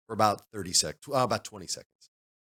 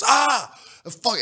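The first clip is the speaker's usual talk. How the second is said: high, loud imitation of a yelp; startled yell; 5 dB louder than usual. Storyteller imitating the bitten player, yelling in shock. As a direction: mimic a player caught by a snake.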